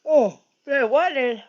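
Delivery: words stretched by a yawn. Real, not acted. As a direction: talk through a big yawn. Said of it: "I can't stop yawning".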